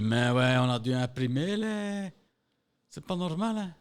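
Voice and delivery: loud, drawn-out protest climbing high in pitch; mock indignant complaint. Colleague complaining about the printed notice, mock indignant. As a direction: imitate someone whining loudly in outrage.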